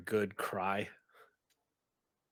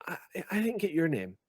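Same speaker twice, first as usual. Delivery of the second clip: nervous student repeat; 5 semitones higher than usual. Acted. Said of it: "Holly, and says".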